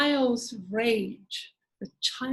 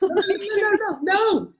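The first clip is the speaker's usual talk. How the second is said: higher and louder, insistent no; emphatic no; 9 semitones higher, 5 dB louder than usual. Real, not acted. Coach firmly correcting Vanessa's advice, emphatic. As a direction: cut her off with a firm rising no.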